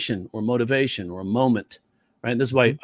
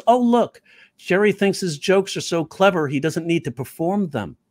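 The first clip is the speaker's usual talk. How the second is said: higher, sarcastic teacher; teacher's jab; 3 semitones higher than usual. Retold or imitated. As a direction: needle the student with mock praise. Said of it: "and she says".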